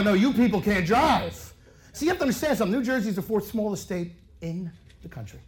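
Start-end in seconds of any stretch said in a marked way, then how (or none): 0.0-1.5 flat comeback, punching drive; retort back. Retold or imitated. To the Midwest guy, a flat comeback. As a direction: toss the line right back. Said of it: "I go".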